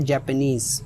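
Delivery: जापानीज with its final नीज drawn out; stress on last syllable. Shown as a demonstration. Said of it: "जो stress है वो last पर है". (जापानीज के अंत पर ज़ोर देकर)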